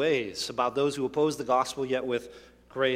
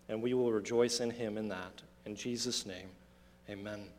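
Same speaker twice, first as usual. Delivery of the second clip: prayer; 3 semitones lower than usual. Acted. Pastor prays for congregation.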